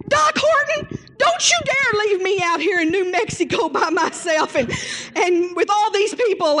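high, half-laughing, half-crying wife; wife's high comic wail; pleading wife. Retold or imitated. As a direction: scold him not to leave, laughing and crying. Wife scolding dead husband.

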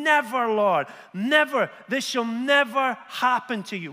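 loud, pleading refusal; Peter's protest. Acted. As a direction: push back hard, like a frightened friend. Peter's rebuke reread, heightened.

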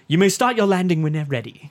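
lightly voiced British film villain; a hint of a British officer giving orders; General Veers. Fan quoting the villain to his brother, lightly imitated British officer. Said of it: "I'd whisper in my brother's ears".

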